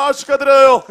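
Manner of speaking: loud, quick celebratory cheer; loud congratulations. Real, not acted. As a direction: cheer them on. Congratulating coupon success.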